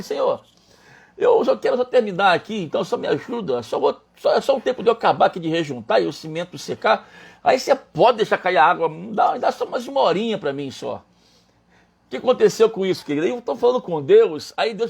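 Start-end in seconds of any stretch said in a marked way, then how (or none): 0.0-11.0 higher-pitched earnest pleading; re-enacted plea to God; pleading prayer. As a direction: beg for just a little more time. Voices his plea to God.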